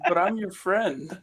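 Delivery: slow pleading through laughter; laughing plea. Real, not acted. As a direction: beg slowly while laughing.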